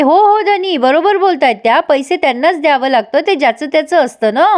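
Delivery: high, quick "हो, हो धनी" then settling; a mock-eager wife chiming in; eager agreement. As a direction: gush agreement to back the aunt's plan. Pinky eagerly agreeing, playing along.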